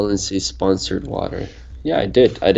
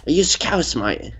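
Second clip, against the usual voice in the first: higher, put-on Scouse lilt; mock Scouse accent; 7 semitones higher, slower than usual. Ribbing a friend from Merseyside, mock Scouse accent.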